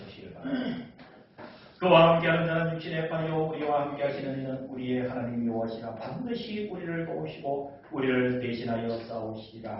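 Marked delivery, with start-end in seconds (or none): 1.8-9.8 solemn declamation in long, falling phrases; scripture reading. Acted. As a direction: proclaim the verse to the congregation. Reads scripture to congregation.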